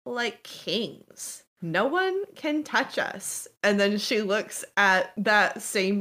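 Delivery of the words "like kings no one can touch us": high-pitched cellmate talking up prison life; boastful cellmate. Acted. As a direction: sell the good life in a raised pitch.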